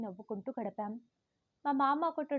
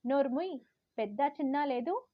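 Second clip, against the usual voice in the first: louder sharp shut-up; mother snapping; 3 semitones higher, 4 dB louder than usual. Retold or imitated. Mother snapping at her rude daughter. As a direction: cut her off hard. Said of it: "అమ్మ కసిరేసింది".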